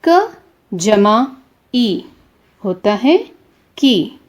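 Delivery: क जमा stretched very slowly, then ई होता है की; slow spelled-out sounding. Shown as a demonstration. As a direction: draw out क जमा like a teacher at the board. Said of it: "उदाहरण देखिए".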